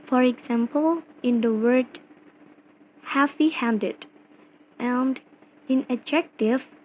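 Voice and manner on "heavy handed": "heavy-handed" with main weight on "handed"; stress on HANDED. Shown as a demonstration. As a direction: say "heavy-handed", lighter on "heavy", stronger on "handed". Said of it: "primary stress is on the second word".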